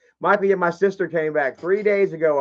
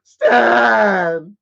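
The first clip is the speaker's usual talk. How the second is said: loud, higher rising call; 5 semitones higher, 8 dB louder than usual. Shown as a demonstration. Hollering at Stan as a message. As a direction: holler his name with a lift at the end. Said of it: "That's what I'm gonna say".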